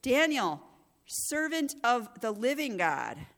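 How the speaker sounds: slow anguished call to Daniel. Acted. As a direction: call into the den, fearing the worst. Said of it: "he called to Daniel in an anguished voice".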